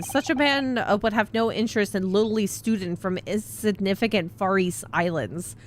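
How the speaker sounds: haughty sailor in a put-on Russian accent. Stroganov dismissing the lawyers, in a Russian accent. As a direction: look down on the student in broken Russian English. Stroganov praises the Western gentleman.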